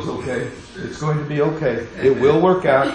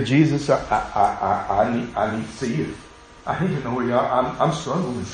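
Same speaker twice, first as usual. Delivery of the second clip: halting prayer; 3 dB quieter than usual. Shown as a demonstration.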